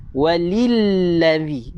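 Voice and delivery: "Waliladzi" slowly, l held long; clear shaddah. Shown as a demonstration. Teacher models the correction, "Waliladzi" with long doubled l. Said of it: "Jelaskan dia".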